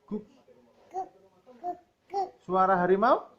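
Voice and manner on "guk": put-on child's little woof; dog bark. Child asked for a dog sound, barks like a dog. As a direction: bark like a puppy on request. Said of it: "Suara anjing?".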